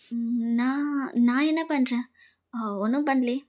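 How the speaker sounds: soft, slow, hesitant voice after crying; hiding tears. Acted. Girl answers her lover's call after crying, softly and slowly. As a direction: choke back the tears and pretend nothing is wrong. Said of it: "voice ஒரு மாதிரி இருக்கு".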